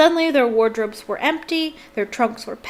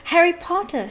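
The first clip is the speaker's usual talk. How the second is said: squealed; 7 semitones higher than usual. Acted. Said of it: "she squealed".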